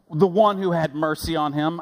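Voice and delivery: reluctant, evasive mock reply; grudging answer. Lawyer answering Jesus, mildly grudging. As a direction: avoid naming the Samaritan. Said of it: "I imagine that's how he said it".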